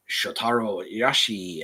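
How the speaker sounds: put-on name read with a Japanese accent; slow, Japanese-accented name reading. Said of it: "if I do the Japanese accent".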